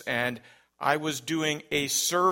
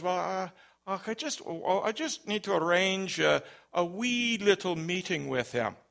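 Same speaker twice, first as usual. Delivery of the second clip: imitated Scottish caller, higher pitched; thick Scottish accent; 4 semitones higher than usual. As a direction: play a hesitant Scot on the phone. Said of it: "had a very thick Scottish accent".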